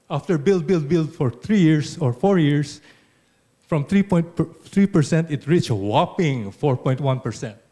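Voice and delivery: mock-impressed, emphatic sarcasm; dry sarcasm with loud, punched emphasis; sarcastic. Real, not acted. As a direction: hit the big words hard, as if hugely impressed. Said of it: "sorry for the sarca-, sarcasm".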